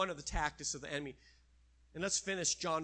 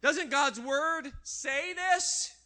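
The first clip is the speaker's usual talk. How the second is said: slow, loud, higher sly question; tempting devil; 7 semitones higher, 9 dB louder, much slower than usual. Acted. Devil baits Jesus with scripture, slow loud sly voice. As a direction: lean in like a tempter baiting.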